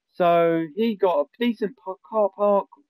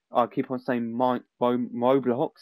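stuttering; 3 semitones lower than usual. Real, not acted. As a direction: stumble and stutter on Roblox. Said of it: "I'm stuttering for a second".

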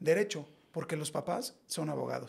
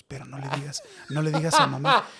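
laughing through the words, getting louder; playful laughter, keep it from mom; 3 semitones lower, 8 dB louder than usual. Retold or imitated. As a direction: giggle it out as a shared joke. Joking secret, laughing.

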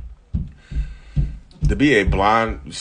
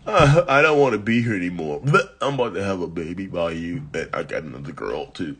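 mock ex. Mocking ex's suicide threat.

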